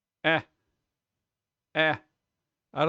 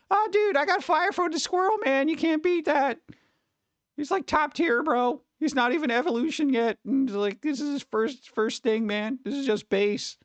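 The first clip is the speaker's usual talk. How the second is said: much higher excited bro voice; hyped-up high gamer-bro brag about his squirrel; bragging gamer bro; 9 semitones higher than usual. Retold or imitated. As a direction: brag like a kid with a rare Pokemon. Imitating a Pokemon-bragging kid.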